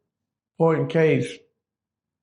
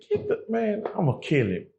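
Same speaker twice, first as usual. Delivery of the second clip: furious; 7 semitones higher, 4 dB quieter than usual. Retold or imitated. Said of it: "And I say".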